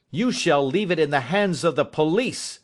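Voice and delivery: half mad with grief and rage. Acted. Father threatening his son with police, grieving and furious. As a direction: threaten him, torn between grief and fury. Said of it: "half mad with grief and rage".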